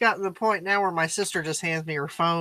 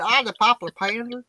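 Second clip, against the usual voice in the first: hillbilly accent. Shown as a demonstration. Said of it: "that's how I would say it".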